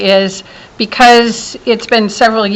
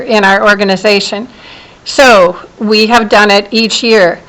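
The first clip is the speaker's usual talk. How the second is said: teacher voice. Real, not acted. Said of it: "I'll use my teacher voice".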